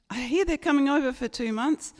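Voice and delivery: put-on Australian accent. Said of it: "forgotten how to speak Australian".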